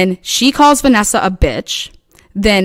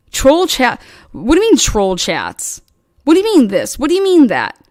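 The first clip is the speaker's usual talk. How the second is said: retold indignation; 4 semitones higher than usual. Retold indignant reply to accusation.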